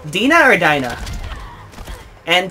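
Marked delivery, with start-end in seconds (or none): 0.1-1.0 "Dina" peaks, "Dinah" drops as the other choice; contrasting two pronunciations. Real, not acted. Polling viewers in the comment section, contrasting "Dina" and "Dinah". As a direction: hit "Dina" as DEE-na, then "Dinah" as DIE-na. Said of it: "Let me know in the comment section".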